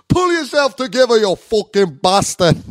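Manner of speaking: loud, high imitation of a fed-up partner; mock angry scolding. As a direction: shout it as a hammed-up telling-off.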